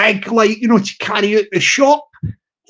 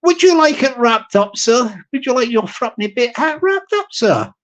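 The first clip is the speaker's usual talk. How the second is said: shop server voice. Retold or imitated. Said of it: "Let me repeat this one".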